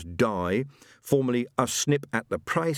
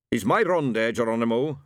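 eager widow; 4 dB louder than usual. Acted. Mrs Ormerod asks.

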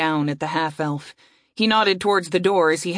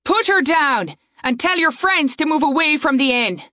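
commanding voice; 7 semitones higher than usual. Acted. Saria's commanding voice.

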